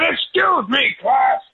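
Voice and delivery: high, loud mock shout at the class; mocking an angry teacher. Imitating the livid teacher calling the class to order, high mock shout. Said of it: "and he got so mad".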